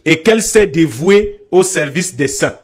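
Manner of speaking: measured scripture reading with pauses; lecture biblique à voix haute. Acted. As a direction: read the verse out deliberately, phrase by phrase. Lit un passage biblique. (lecture posée d'un verset biblique)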